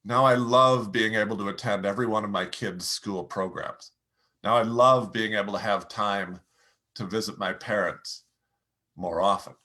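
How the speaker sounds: sincere, feeling it; heartfelt. Shown as a demonstration. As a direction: share how it feels. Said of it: "feelings that you're having".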